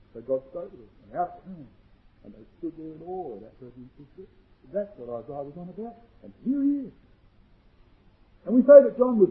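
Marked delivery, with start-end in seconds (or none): 0.1-6.9 very soft, reverent preaching; hushed awe. Real, not acted. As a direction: drop almost to a murmur. Preacher drops to awe after climax.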